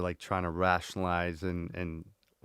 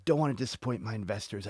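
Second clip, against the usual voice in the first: higher, insistent self-argument, fading down; arguing yourself into it, pitched up; stubborn inner voice; 7 semitones higher, 3 dB louder than usual. Retold or imitated. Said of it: "But I'm like".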